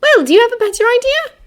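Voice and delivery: high, loud moody challenge. Acted. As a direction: ask it sulkily. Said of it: "Hermione asked moodily".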